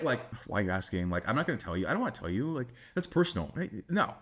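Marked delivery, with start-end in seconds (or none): 0.5-3.5 mildly defensive, halting refusal; mock uncomfortable. Shown as a demonstration. Coach shows the wrong reply to her, mildly uncomfortable. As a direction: squirm lightly away from the question. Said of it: "You, you don't get uncomfortable".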